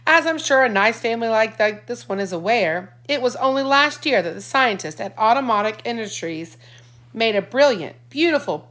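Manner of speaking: lightly voiced smooth salesman; a hint of a sales pitch; salesman imitation. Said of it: "imitating the guy who sold him".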